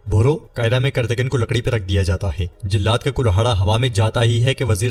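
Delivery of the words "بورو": short startled question with a lift; surprised. Acted. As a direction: blurt the name in disbelief. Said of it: "امام مالک حیرانگی سے کہتا ہے". (حیرانی سے سوال)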